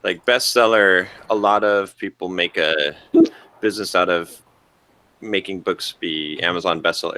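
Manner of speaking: talking through hiccups; words broken by hiccups. Real, not acted. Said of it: "man, he's got the hiccups".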